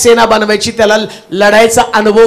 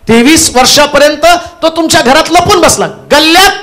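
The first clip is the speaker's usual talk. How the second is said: fervent preaching; 6 semitones higher than usual. Real, not acted. Preacher building fervour.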